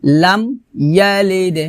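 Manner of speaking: "লাম ইয়ালিদ" with m shut, then bounced d; closed m, separated. Shown as a demonstration. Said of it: "কলকলা করতে হবে".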